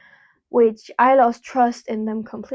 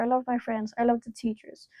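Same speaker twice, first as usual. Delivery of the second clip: whispered; 6 dB quieter than usual. Real, not acted. Affectionate aside about school.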